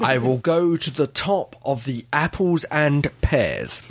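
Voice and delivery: mock Mockney. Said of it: "the awful Mockney accent".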